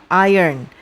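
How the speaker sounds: "iron" said "AI-yern"; correct pronunciation. Shown as a demonstration. Teacher repeating the proper reading for pupils, "iron" as "AI-yern". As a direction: say "iron" as "eye-ern", R after the vowel. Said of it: "kalau kita tuliskan kayak".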